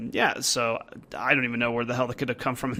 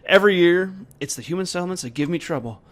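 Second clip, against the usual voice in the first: gruff Varl voice; 4 semitones higher, 4 dB louder, faster than usual. Acted. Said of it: "voice is getting totally out of control".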